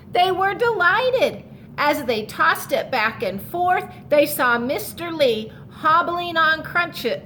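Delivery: storybook read-aloud to the class; reading to children. A narrator's reading. Teacher reading a picture book to her class, storytelling voice.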